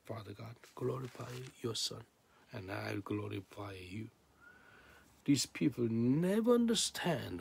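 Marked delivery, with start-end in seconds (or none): 0.0-4.1 soft, hushed imitation of a prayer; imitated prayer. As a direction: pray it softly to the Father. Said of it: "He pray like this".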